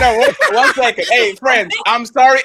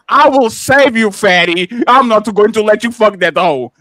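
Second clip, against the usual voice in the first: mock straight face; 4 semitones lower than usual. Daring his friend to say it seriously, mock solemn. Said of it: "Say that with a straight face".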